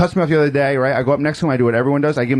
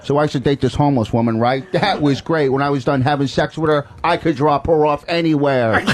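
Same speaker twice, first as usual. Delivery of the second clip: lightly voiced club-comic impression; Rich Voss. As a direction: mimic another comic delivering his joke. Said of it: "All right, we'll do Voss first".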